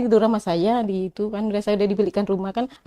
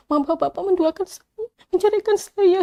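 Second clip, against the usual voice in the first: rising higher and louder in hurt anger; anguished accusation; 10 semitones higher, 6 dB louder than usual. Retold or imitated. Wife confronting husband over his second marriage, rising to a loud hurt cry. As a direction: build it up into an outraged cry.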